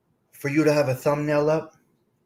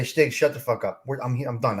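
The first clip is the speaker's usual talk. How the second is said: imitating Carmela; 3 dB louder, faster than usual. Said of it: "she's gonna say".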